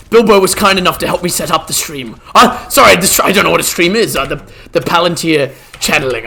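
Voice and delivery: hint of a bumbling old wizard; Gandalf role-play. Streamer playing Gandalf for chat, lightly voiced old wizard.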